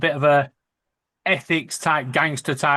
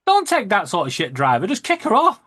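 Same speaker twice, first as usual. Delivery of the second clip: cheeky retold heckle, jumping higher at the end; mock outburst; 5 semitones higher than usual. Passenger calling to bus driver about a woman, mock outburst. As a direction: egg the driver on, pitch leaping on the last words. Retelling own shout to driver.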